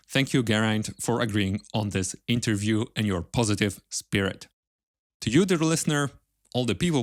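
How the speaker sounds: scripted sign-off to the listeners, measured and clearly enunciated; podcast outro read. Acted. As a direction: read out the episode credits and links with lilting presenter intonation. Scripted podcast outro after the interview.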